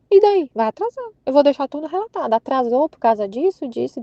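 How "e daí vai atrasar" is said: desafiando, despreocupada. Retold or imitated. Desafiando a própria preocupação.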